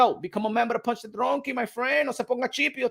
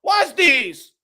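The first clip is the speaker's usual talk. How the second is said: retold complaint; 3 semitones higher, 4 dB louder than usual. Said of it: "I said".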